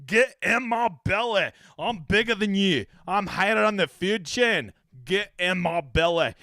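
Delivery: lightly voiced greedy Scottish glutton, slow; fat bastard voice. A hint of a gluttonous fat bastard taunting the tournament. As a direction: growl it out like a hungry fat brute. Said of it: "I want him to be the fat bastard".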